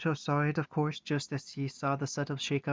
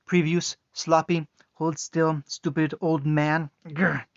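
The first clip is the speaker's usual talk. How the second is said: angry; 6 dB louder than usual. Acted. Raging brawler fighting.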